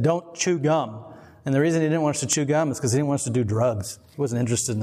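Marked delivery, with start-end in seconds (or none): 0.0-1.0 slow, deliberate stern dad rule; strict dad. Retold or imitated. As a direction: spell out the rule like a strict father. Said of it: "he said".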